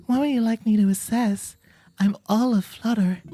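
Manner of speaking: high, loud, flustered owl curator; Blathers Jackson. Acted. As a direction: play an eager museum owl, all aflutter. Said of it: "bring Blathers Jackson back".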